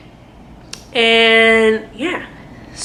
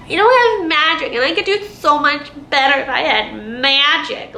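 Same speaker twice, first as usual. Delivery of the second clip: higher-pitched imitation of a complainer; mock whining; 5 semitones higher than usual. Reader imitating the heroine's constant complaints about magic, mock whining. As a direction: mimic a whiny heroine, lightly exaggerated. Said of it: "how much you are whining".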